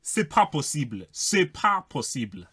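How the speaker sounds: exaggerated French accent. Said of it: "'cause that accent was, was wayward".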